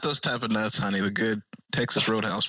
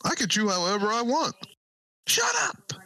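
squeaky bickering voice; 12 semitones higher than usual. Acted. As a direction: bicker in a shrill cartoon voice. Acting a popcorn quarrel.

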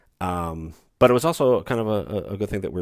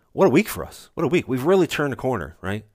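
higher and louder, crowing over the week; excited brag; 5 semitones higher, 4 dB louder than usual. Real, not acted. Host boasting to listeners about a perfect week, excited. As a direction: crow about the win, punch the first word.

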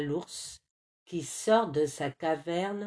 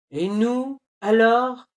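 loud, higher protest; indignant cry; 3 semitones higher, 7 dB louder than usual. A narrator's reading. Rabbit and monkey protesting to the squirrel, loud. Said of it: "crient le lapin et le singe".

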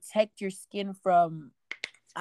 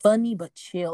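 imitating guys listing wants; slower than usual. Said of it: "That's how guys talk about females".

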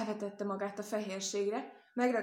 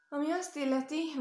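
lightly voiced goose, higher and louder; goose mother; 7 semitones higher, 5 dB louder than usual. Goose mother admits to the rabbit, higher and louder. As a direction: fuss like a plump mother goose.

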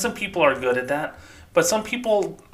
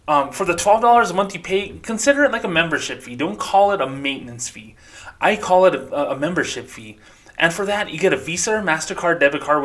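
polished customer-service script voice, lightly done; a smooth bank rep soothing an angry customer. Retold or imitated. Ex-employee imitates bank rep talking down a customer, smooth scripted tone. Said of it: "try to do my best Bank of America voice".

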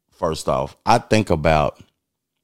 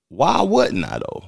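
incredulous; 13 semitones higher, 4 dB louder, slower than usual. Real, not acted. Defending his view, incredulous.

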